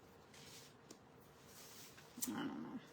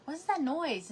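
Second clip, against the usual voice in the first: high, louder yelled question; 8 semitones higher, 4 dB louder than usual. Retold or imitated. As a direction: shout it up the stairs. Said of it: "I yelled up".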